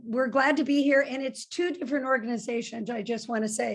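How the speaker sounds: rough, gravelly speaking voice. Real, not acted. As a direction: talk with a gravelly, roughened throat. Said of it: "makes my voice sound very gravelly".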